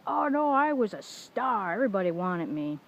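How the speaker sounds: ex-boyfriend mocking his ex's bragging as a hammed-up diva; mock diva brag. Hammed-up mock diva boast.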